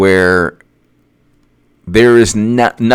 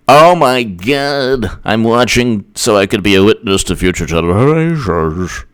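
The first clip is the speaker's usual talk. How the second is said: mock dismay; 3 semitones lower than usual. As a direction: stretch it out like an overwrought witness. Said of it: "all we get is".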